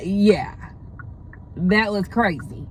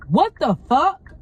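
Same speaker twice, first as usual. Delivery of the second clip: appalled reaction; 4 semitones higher, 4 dB louder, slower than usual. Retold or imitated. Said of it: "Literally, that's what I said".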